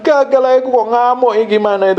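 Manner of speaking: lightly acted crying out to God; mock tearful prayer. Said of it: "kamu akan nangis sendirian bersama Roh Kudus".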